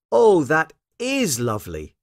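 put-on high, admiring little girl; Lucy. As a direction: coo with a child's delight. Lucy admires the ironed pinny.

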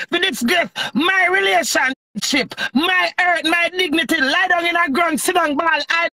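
real, forceful outrage; indignant rant. Real, not acted. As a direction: hit each grievance hard. Angrily defends her relationship and dignity.

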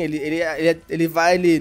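stumbling over the words; real stutter, stuck on one word. Real, not acted. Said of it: "eu tô gaguejando pra falar".

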